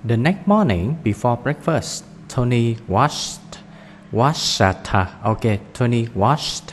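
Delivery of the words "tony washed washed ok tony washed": slow washed with its final sound clear; ending of washed. Shown as a demonstration. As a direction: say washed carefully, ending in a t sound, not wash it. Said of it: "không có wash it nha". (đọc chậm washed, rõ âm cuối)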